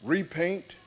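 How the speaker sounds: solemn, drawn-out voice of God; mighty voice. A narrator's reading. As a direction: pronounce it like the Almighty from the thunder. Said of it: "a mighty voice spoke".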